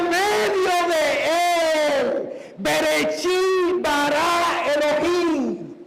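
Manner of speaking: slow, long-drawn declamation; preaching proclamation. Acted. Preacher answers with John's verse, slowly and emphatically proclaimed. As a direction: proclaim it with stretched vowels.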